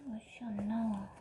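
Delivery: frustrated whisper under breath. Real, not acted. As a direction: mutter it to yourself. Muttering while failing the task.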